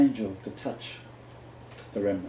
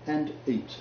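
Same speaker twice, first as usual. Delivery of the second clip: slow, drawn-out angel's command; solemn angel; 5 semitones higher, much slower than usual. Retold or imitated. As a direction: call him up gently but slowly, like an angel. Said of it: "and said unto him".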